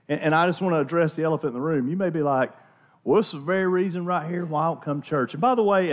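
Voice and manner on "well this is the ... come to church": Southern redneck twang, playfully mocking; southern redneck accent. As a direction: put on a country Southern accent to mock a doubter. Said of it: "in a very southern redneck accent".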